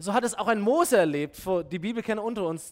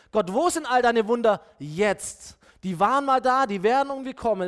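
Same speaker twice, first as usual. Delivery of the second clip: insistent, louder plea to God; challenging complaint; 2 semitones higher, 4 dB louder than usual. Acted. Gideon complains to God about the missing wonders, insistent. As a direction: press God with an exasperated prayer.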